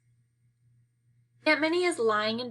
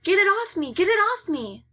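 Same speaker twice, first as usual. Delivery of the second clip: high frantic shriek, much louder; screaming; 10 semitones higher, 5 dB louder than usual. Acted. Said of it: "smacking her back and screaming".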